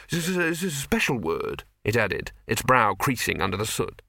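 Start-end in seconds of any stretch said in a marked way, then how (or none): 0.1-1.6 earnest alchemist. Acted. Alchemist insists.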